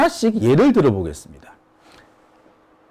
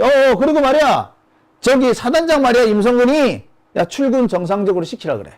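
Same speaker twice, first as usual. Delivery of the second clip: imitating an official pressing orders, higher voice; hurried afterthought turned into a pushy, higher-pitched order; insistent phone order; 5 semitones higher than usual. Minister calling a commander back with more orders, insistent.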